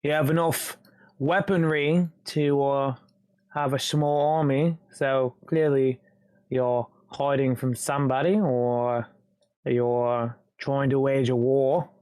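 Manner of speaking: British gangster reasoning aloud. Acted. Intruder presses the man about his weaponry, British gangster accent. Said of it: "sounding like a British gangster".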